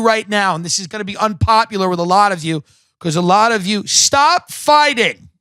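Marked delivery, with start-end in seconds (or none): 3.9-5.3 sharp, higher call to stop; telling off cats. Real, not acted. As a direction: snap at the squabbling cats. Scolding the cats mid-rant.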